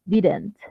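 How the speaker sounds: didn't with the middle d as a quick tap, "diran't"; pronunciación informal de didn't. Shown as a demonstration. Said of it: "se pronuncia es así". (didn't pronunciado como "diran't", con d suave)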